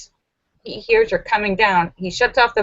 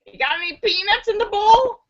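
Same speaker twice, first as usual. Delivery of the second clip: much higher, casual redneck voice; redneck asking; 12 semitones higher than usual. Acted. Redneck asks the bartender for peanuts, high. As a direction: ask for peanuts like nothing happened.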